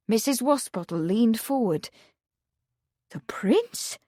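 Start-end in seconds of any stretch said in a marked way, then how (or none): 3.1-4.0 breathless whispered question; hushed with wonder; whispered in awe; awed whisper. Acted. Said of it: "she asked, awed".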